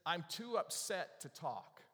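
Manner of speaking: slow, measured mock upset; imitated upset professor. Professor to the girl with balloons, slowly upset. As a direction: drag it out like an affronted professor. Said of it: "he looks at her, and he says this".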